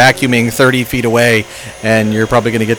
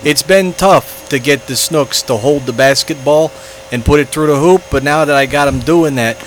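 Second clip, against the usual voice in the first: put-on thick New York accent, sports coach. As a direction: talk like a Brooklyn coach. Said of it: "His, his New York accent's at least a little better than yours".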